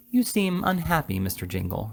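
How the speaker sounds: high opening that sinks away; mildly plaintive, concerned lady. A narrator's reading. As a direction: start high and let it droop. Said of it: "in a plaintive voice".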